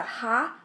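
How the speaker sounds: "ha" opened with an audible puff of breath; breathy H sound. Shown as a demonstration. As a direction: say "ha" with a clear breath on the H. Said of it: "a breath sound".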